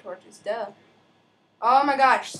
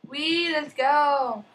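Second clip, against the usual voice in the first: excited; 4 semitones higher, 3 dB louder, much slower than usual. Real, not acted. Excited cheer starting game.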